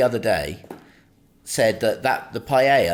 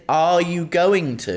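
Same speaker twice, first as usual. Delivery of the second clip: innocent question; 5 semitones higher, much slower than usual. Retold or imitated. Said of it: "I said".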